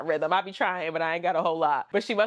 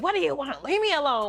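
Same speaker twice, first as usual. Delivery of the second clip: mildly angry; 7 semitones higher, faster than usual. Retold or imitated. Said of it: "kinda angry with everybody".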